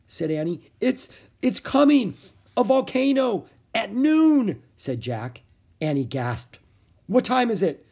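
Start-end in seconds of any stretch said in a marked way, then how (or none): 0.8-4.6 high, loud panicked shout; frantic warning; boy warning his sister in panic. A narrator's reading. Jack panicking. 7.1-7.8 high, loud frantic question; panicked. A narrator's reading. Jack panicking.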